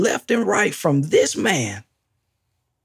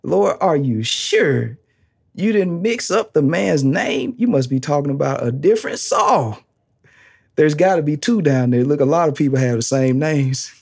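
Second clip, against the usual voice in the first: mock pleading Ananias; 3 semitones lower than usual. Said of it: "would have said more".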